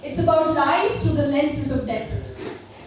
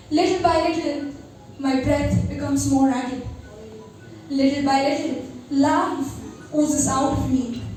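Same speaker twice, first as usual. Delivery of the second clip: poem recitation. Acted. Recites her poem Metanoia.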